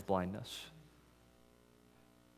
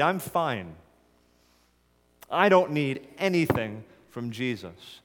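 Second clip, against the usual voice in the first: louder, higher, smugly self-assured; proud Pharisees; 3 semitones higher, 4 dB louder than usual. Acted. Pharisees dismissing Jesus, smug and louder. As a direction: brush Jesus off, sure of yourself.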